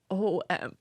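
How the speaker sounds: high squeaky laughing what; giggling shocked what; laughing disbelief. Retold or imitated. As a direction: laugh it out in disbelief, pitch leaping up. Reliving shock at the ultrasound.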